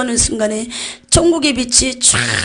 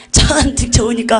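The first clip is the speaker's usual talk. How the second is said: Jeolla dialect; 3 dB louder than usual. Shown as a demonstration. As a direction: stretch the phrase in Jeolla Korean. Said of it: "전라도 말로".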